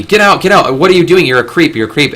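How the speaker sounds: mock alarmed women turning someone away; imitated hostile shock. Women react to a man in their bathroom, mildly hostile retold outburst. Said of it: "the typical reaction was shock and hostility".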